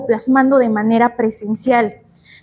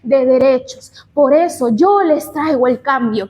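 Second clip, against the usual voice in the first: a light mock of a politician, slow and raised at the start; politician's speech; 3 semitones higher than usual. Teacher imitating a politician at a rally, mildly hammed-up. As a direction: orate the opening line like a campaign promise. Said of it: "Están dando su discurso y dicen".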